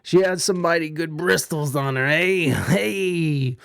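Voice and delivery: jokey British geezer leer; mock British cheeky chap, drawn-out eh; British accent. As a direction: put on a silly British accent. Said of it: "do a British accent".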